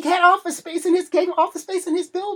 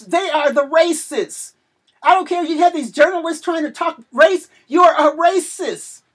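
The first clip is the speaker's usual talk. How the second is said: emotional preaching shout; 2 semitones higher, 6 dB louder than usual. Real, not acted. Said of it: "get so emotional about this".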